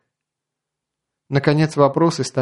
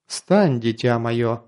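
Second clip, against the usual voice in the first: gentle but commanding; 2 semitones lower, much slower than usual. Acted. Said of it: "звучал ласково, но властно".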